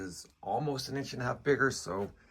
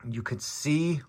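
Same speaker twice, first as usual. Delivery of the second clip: mouth full. Real, not acted. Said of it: "sorry, I got gum in my mouth".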